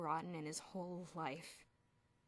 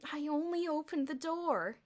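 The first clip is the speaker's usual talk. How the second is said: slow, higher imploring; 8 semitones higher, 8 dB louder than usual. A narrator's reading. Perry apologizing to Elmer, imploring. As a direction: plead to be believed. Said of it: "he implored".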